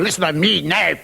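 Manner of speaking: slow, menacing Scottish warning; belligerent Scot. Acted. Scot squaring up to someone he calls pal, belligerent. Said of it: "aggressive or belligerent, or threatening".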